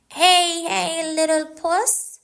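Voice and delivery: gentle soothing to a cat; calm the frightened cat. A narrator's reading. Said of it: "he soothed".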